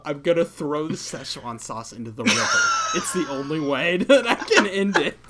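half-shouting through laughter; hammed-up dramatic vow, laughing; laughing mock shout. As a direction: declare it while cracking up. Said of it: "And I tell him".

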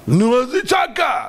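high, impatient burst; exclaimed objection. Acted. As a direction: fire back a loud, scoffing objection. Preacher acts out an objection.

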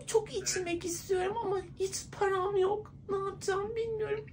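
high, tearful fake sob; mock crying. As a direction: whine it out like a crying drunk. Woman sobs about being cheated on.

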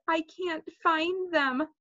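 mildly sniffly. A narrator's reading. Sheila reports failure to Missus Hatcher, mildly sniffly. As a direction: confess it plaintively, building to the end. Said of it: "Sheila sniffled and said".

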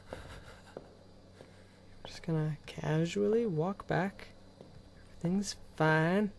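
soft whisper, sneaking. Real, not acted. Gamer sneaking past monsters, whispering so they won't hear. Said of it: "I'm, like, whispering so they don't hear me".

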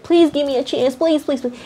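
a quick mock plea for a chance; begging. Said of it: "I see somebody even begging".

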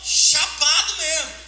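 chapado stretched slow and loud; emphatic drawl. Acted. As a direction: lean hard on chapado, stretched out. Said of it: "Você não tá entendendo?".

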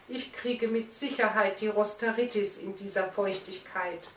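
a touch of a sighing complaint; mild sigh. Acted. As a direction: grumble sorrowfully about the damp. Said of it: "seufzte er".

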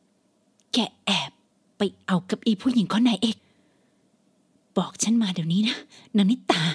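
menacing mother. Acted. Mother pulls hair, interrogates.

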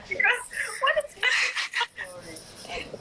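laughing cry. Real, not acted. Overwhelmed, half-crying laugh.

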